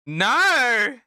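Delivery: high laughing shout of disbelief; loud cry of no; shocked shout. Real, not acted. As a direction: yell it out in horror, laughing. Reacting in shock to clip.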